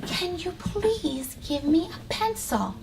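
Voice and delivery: slow, soft and polite; polite request. Shown as a demonstration. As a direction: ask nicely, gently. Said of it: "What could we say instead of".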